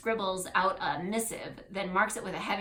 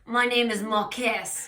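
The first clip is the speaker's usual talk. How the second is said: put-on slow, louder French-accented introduction; put-on French accent, drawn out; 3 semitones higher, 5 dB louder, slower than usual. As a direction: introduce yourself as a French town clerk. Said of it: "oh, he's French".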